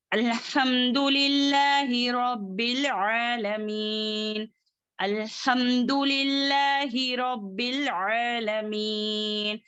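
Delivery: slow, level-toned verse with elongated vowels; Quran recitation. Shown as a demonstration. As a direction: recite measuredly, holding the long syllables.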